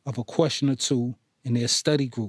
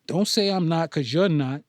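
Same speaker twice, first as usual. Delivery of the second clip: defending herself, rising pitch; defensive; 3 semitones higher than usual. Acted. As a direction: insist on it. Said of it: "she defended her notion".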